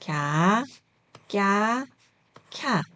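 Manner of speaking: lax 갸, tense 꺄, aspirated 캬; syllable drill. Shown as a demonstration. Teacher modelling second letter set for learners, separated 갸, 꺄, 캬. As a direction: read 갸, 꺄, 캬 apart, each onset distinct. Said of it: "이렇게 읽어주세요".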